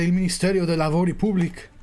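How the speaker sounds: "Public" ending in a hard k; attempted Italian pronunciation. Shown as a demonstration. Streamer guessing at a ministry's Italian name, attempted pronunciation. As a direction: say "Public" as POO-bleek, Spanish-style. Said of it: "try and pronounce the Italian".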